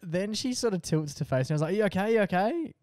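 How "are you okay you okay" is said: higher-pitched worried question; retold anxious check on her; concerned check. Checking on hurt mum.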